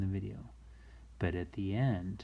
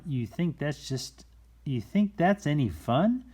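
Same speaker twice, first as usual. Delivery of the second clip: excited; 6 semitones higher, 4 dB louder than usual. Acted. Rhyme quoted with rising tune.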